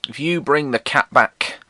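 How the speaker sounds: slow, solemn prayer voice; child's prayer. Retold or imitated. Boy praying to save a hit cat, slow and solemn. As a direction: pray earnestly like a small child. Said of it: "And I said".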